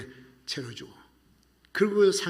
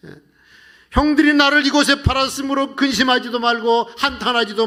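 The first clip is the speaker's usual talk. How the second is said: loud, high, pleading reveal; emotional outcry; 8 semitones higher, 7 dB louder than usual. Acted. Joseph reveals himself to his brothers, loud and high with emotion.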